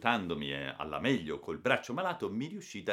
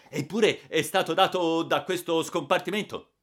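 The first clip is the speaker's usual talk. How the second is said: loud, raised official voice; high-pitched forceful insistence; insistent accusation; 9 semitones higher, 8 dB louder than usual. A narrator's reading. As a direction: press the charge firmly and loudly. Railway staff insist on the accusation.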